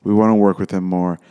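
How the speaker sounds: slow, emphatic pauses between phrases, lightly voiced caller; gushing caller. Casting caller praising a son to the mother, lightly imitated slow gushing. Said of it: "and they're like".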